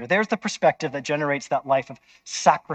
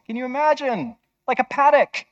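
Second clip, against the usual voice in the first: much higher, incredulous "can you imagine?"; mock-shocked, high-pitched disbelief at selling all for a field; mock incredulity; 9 semitones higher than usual. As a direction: play the scandalised onlooker, pitch way up. Mocking imagined reaction.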